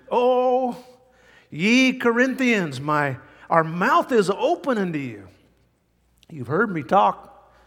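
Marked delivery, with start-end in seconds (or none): 0.1-5.3 passionate apostle. Retold or imitated. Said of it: "you know they're getting passionate".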